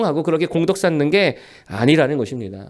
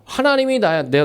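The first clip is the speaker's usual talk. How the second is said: ordinary delivery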